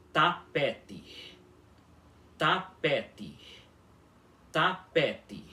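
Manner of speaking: tapete spoken slowly with a hard final ti; careful demo word. Shown as a demonstration. Teacher modelling tapete for the class, clear hard T. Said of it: "a nossa primeira palavra balborana de hoje é".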